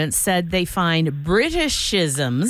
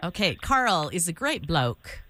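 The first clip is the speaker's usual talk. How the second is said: bad British accent; 3 semitones lower, 5 dB quieter than usual. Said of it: "you sounded insincere in every respect".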